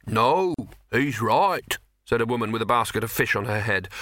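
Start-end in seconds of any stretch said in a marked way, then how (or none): 0.1-1.8 fishwife. Acted. Woman with fish basket.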